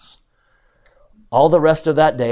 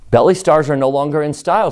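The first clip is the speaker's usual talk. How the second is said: loud showman announcement; proclaiming; 4 semitones higher, 8 dB louder than usual. Acted. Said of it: "said McBean".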